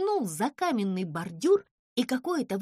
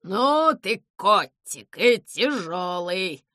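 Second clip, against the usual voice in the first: straining under weight; 2 semitones lower, 7 dB louder, slower than usual. Acted. Owl straining under heavy cat.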